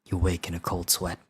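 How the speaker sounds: low, understated creepy narration; spooky storyteller voice; scary voice. Pretend. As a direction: end the nightmare quietly, ominously. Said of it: "do a scary voice".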